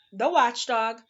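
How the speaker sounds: shouted. Acted. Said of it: "shouted another".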